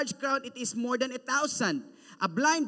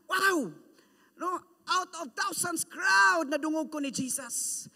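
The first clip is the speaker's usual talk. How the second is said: excited; 4 semitones higher than usual. Acted. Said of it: "he's very excited".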